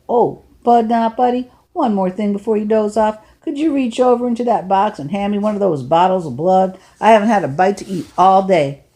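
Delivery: a hint of a genial older man; an older driver talking to a runaway boy, lightly voiced. Lefty's vampire joke.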